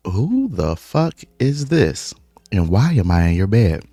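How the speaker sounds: who the hell is this; shocked confusion. Retold or imitated. Waking in stranger's bed, confused.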